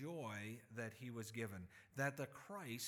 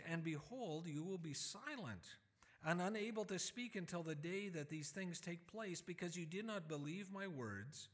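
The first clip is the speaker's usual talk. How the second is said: reading Gabriel; 4 semitones higher than usual. Retold or imitated. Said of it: "and the angel answered him".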